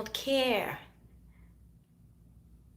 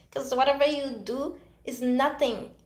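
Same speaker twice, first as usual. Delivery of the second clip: normal talking voice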